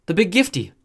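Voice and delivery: put-on high, loud childlike squeal; excited little boy. A narrator's reading. Matt announcing the gift, squealing. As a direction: bounce with glee.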